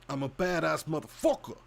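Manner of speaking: attempted Brooklyn tough talk; Brooklyn accent. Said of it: "Brooklyn accent".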